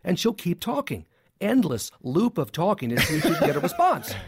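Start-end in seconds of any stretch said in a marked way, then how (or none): 1.4-4.1 endless leaned on, with a laugh; emphasis on endless. Real, not acted. Psychologist stressing endless to the host, laughing. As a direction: give endless a little weight. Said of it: "I like the emphasis on endless".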